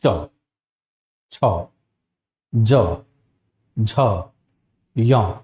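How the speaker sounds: each palatal consonant said slowly and separately; च छ ज झ य, each with the tongue on the palate and a pause; articulated palatal consonants. Shown as a demonstration. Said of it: "जैसे बोलते हैं". (हर व्यंजन तालु से अलग-अलग, धीरे बोलें)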